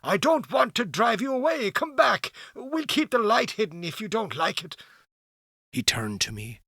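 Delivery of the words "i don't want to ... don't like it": calling back. Acted. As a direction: coax the stranger back. Will calls stranger back.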